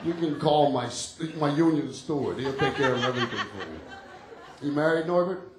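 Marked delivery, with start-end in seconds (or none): 0.0-3.8 low, gruff union guy on break; surly union worker. Retold or imitated. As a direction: grumble it like a lazy union worker. Union guy voiced, lower.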